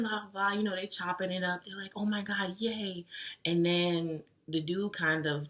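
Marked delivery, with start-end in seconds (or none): 2.0-3.1 mock excitement. Retold friends catching up.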